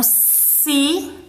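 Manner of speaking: SÍLABA as three separate beats, sí, la, ba; split into syllables. Shown as a demonstration. Teacher counting three sounds, sílaba broken into pieces. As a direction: say sílaba with a long pause after each syllable. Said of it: "em três sons".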